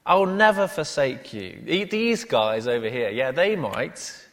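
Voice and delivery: loud, high protest, settling slightly by the end; Peter. Acted. Peter telling Jesus he's got it wrong, loudly protesting. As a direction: argue back with total self-confidence. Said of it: "Peter says".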